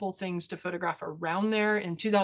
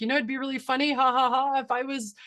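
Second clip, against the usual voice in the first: mock laughing; 4 semitones higher than usual. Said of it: "and I was like".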